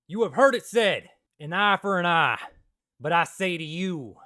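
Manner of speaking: loud preaching in a playful put-on accent; Jesus in put-on accent. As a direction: proclaim it in a mock accent, starting big and easing off. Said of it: "didn't say it in that accent".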